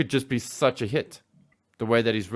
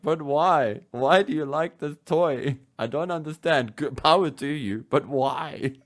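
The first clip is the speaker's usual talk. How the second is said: slightly raised, baffled pleading; mock bewilderment; 3 semitones higher, slower than usual. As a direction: lightly act out total incomprehension. Acts out bafflement at collectors' taste.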